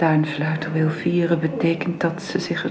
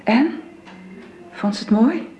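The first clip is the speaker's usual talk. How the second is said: louder and higher, pressing; eager questions; 6 semitones higher, 4 dB louder than usual. Acted. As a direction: push him, eager to know. Father eagerly asks about gift. (gretig en aandringend gevraagd)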